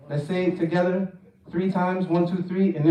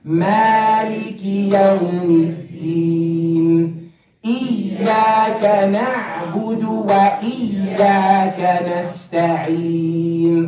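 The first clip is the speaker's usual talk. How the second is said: Quran recitation. Shown as a demonstration. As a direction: chant it steadily for others to follow. Recites the surah with class.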